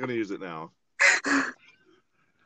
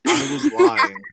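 playful confession; 10 dB louder than usual. Pretend. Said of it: "about being excited".

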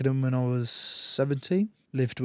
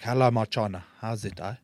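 put-on South African accent. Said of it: "South African rugby coach".

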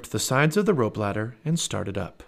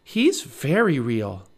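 slow awe; 3 semitones higher, much slower than usual. Acted. Annie slow awed.

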